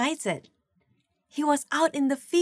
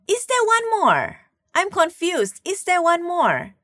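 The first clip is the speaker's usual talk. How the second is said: "Is there one more?" asked high and louder; a puzzled prophet pressing for one more son; confused, surprised question; 6 semitones higher, 3 dB louder than usual. Retold or imitated. Samuel asking Jesse, puzzled, higher and louder. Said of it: "he says".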